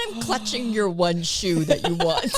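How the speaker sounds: laughing through the words. Real, not acted. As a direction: giggle while you say it. Laughing at the picture.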